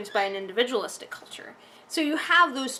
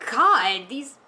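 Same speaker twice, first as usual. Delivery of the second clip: exasperated rant; 4 semitones higher, slower than usual. Retold or imitated. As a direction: vent like you can't believe what you're watching. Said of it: "it was just like".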